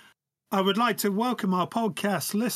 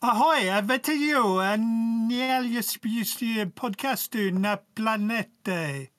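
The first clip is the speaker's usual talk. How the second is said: Czech accent; 2 semitones higher, slower than usual. Shown as a demonstration. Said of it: "okay, Czech Republic".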